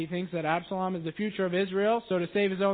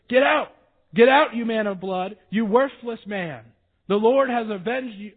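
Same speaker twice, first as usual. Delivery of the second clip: shouted curses, much louder; cursing; 4 semitones higher, 8 dB louder than usual. Acted. Shimei shouting curses at fleeing King David, loud and angry. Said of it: "as he cursed".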